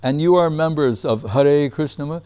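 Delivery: lightly imitated humorous guru; a hint of the teacher's measured delivery; Guru Maharaj. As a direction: quote his gentle joke, pitch lifted at the start. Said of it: "That's the way he said it".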